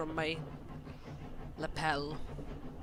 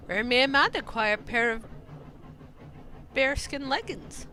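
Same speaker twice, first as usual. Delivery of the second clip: lightly posh, higher-pitched enquiry; 5 semitones higher than usual. Acted. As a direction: ask with a touch of put-on refinement. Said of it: "A posh voice?".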